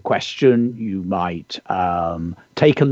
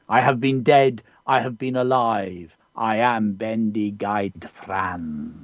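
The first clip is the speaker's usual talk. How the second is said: measured, unhurried recitation with pauses; poem reading. Acted. Poet reading a pupil's poem on air, measured recitation. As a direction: read the poem like an ancient bard speaking. Reads a child's poem aloud.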